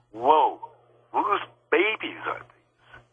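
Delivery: high, drawn-out amazed question; retold astonishment. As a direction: ask it slowly in rising wonder. Retold astonishment at room of babies.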